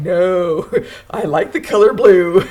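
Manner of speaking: loud, giggly mock protest; laughing retort. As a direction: protest loudly while breaking into laughter. Retold laughing retort to husband.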